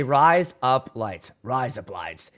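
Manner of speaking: lightly voiced Australian "Rise up, lights" sounding like razor blades; mock Australian accent. Shown as a demonstration. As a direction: drawl "Rise up, lights" in a hammed-up Aussie way.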